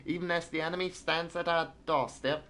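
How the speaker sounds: put-on a shaky British newsreader accent; British accent attempt. Streamer resumes the British newspaper in a British accent. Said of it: "I can't do British accent".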